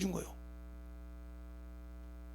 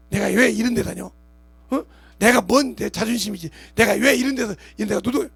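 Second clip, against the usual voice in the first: louder, huffy complaint; indignant grumbling; 2 semitones higher, 7 dB louder than usual. Acted. Worker quitting over hurt pride, mock indignant grumble. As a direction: play the offended worker who storms off.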